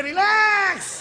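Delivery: slow, high shouted word; mock shout. Friends answering the boy, a slow high shout. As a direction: stretch it out and shout.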